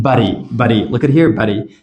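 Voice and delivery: "but he" said as Buddy; Buddy, linked with no H; flapped T. Shown as a demonstration. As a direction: tap the middle of Buddy like a fast D.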